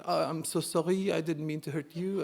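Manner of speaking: softly voiced, apologetic French kid; nice French kid. French kid apologizing to the boy he hit, mild and nice. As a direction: apologize gently, lightly playing a polite French boy. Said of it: "very nice, young French kid going".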